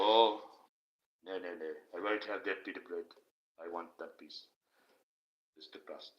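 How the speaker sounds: a hint of a dainty, otherworldly saint; mock-delicate Jesus fading to a hush; mock-ethereal Jesus. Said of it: "You got him all ethereal".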